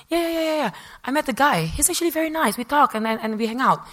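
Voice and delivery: high-pitched gushing to a friend; breathless-to-share excitement, acted out; excited telling. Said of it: "be exciting telling her".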